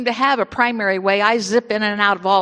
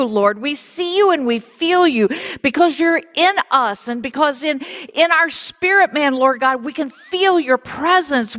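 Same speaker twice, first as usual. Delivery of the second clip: fervent prayer; 3 semitones higher than usual. Acted. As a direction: pray it out to the Father with rising fervour. Leads the congregation in prayer.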